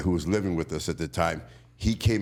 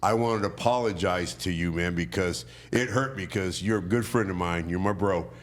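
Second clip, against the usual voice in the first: sincere apology; 2 semitones lower than usual. Real, not acted. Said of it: "this is being serious".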